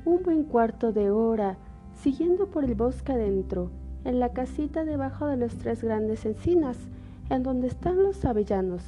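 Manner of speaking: put-on a trusting child giving directions; little girl voice. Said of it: "dijo Caperucita". (voz de niña inocente)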